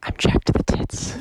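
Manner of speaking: loud sharp voice. Acted. Hyped loud unvoiced rasp.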